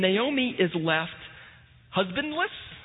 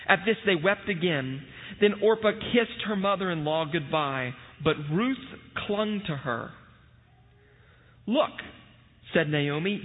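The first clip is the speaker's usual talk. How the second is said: formal liturgical reading voice; scripture reading. Acted. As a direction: read the passage with solemn care. Reads scripture aloud at service.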